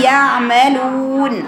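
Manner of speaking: slow يعملون with a clear throat ع; proper ayn. Shown as a demonstration. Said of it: "ده صوت العين". (عين من وسط الحلق)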